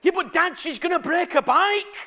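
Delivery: put-on high, loud child's protest; imitated little girl. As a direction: insist like a child who won't be hushed. Imitating his loud young daughter.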